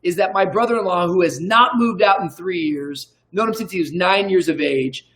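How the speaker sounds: playful emcee hype, building to the name; announcer introduction. Pretend. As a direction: introduce him like a ring announcer. Announces guest like an MC.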